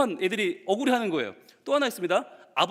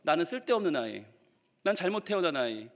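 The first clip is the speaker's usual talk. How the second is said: lower, subdued inner voice; dejected child; 4 semitones lower, 4 dB quieter than usual. Retold or imitated. Pastor voicing what children conclude, dejected. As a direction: let it sink, understated and downcast. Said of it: "아이들이 받아들이는 건".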